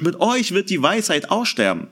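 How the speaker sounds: understated mock praise; lightly ironic jab at his friends; dry ironic quote, mildly voiced. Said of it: "sagt es ironisch".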